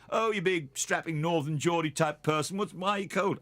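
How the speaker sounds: a hint of southerners ribbing a big northerner; mock-incredulous locals, lightly done. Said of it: "When people down here say".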